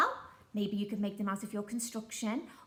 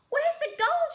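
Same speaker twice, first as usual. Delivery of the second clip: much higher, louder pirate roar; angry shout; 9 dB louder than usual. Acted. Pirate captain demanding the gold, loud high shout. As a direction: bellow it at the troll. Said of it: "shouted Handkerchief".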